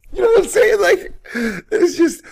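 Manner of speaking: squeaky high, laughing words; helpless laughter. Real, not acted. Host explaining the absurd bond to listeners, helplessly laughing. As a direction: try to explain while cracking up. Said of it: "can't even say it with a straight face".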